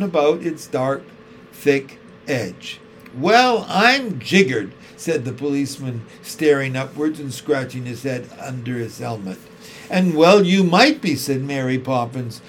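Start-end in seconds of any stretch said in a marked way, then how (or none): 3.1-4.7 astonished. A narrator's reading. Astonished policeman. 9.9-11.2 loud mock-cross snap; ferocious snap. A narrator's reading. Nanny snapping at the policeman, only pretending to be cross. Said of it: "with such a ferocious, ferocious snap".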